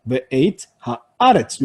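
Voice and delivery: "베에이트" rising, then "하아레츠" punched on 아 with a falling end; penultimate stress. Shown as a demonstration. Teacher reading Hebrew aloud, "하아레츠" stressed before the last syllable. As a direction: hit 아 in "하아레츠", let 레츠 drop. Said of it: "요것도 페널티 밑입니다".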